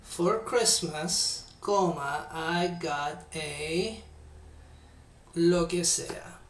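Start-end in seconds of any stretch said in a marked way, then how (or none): 0.0-4.0 slow dictation. Shown as a demonstration. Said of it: "sigan ese, ese modelo".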